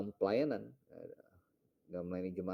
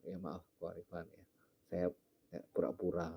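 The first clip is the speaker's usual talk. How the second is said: sheepish confession; 6 dB quieter than usual. Retold or imitated. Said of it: "Kemudian ngaku".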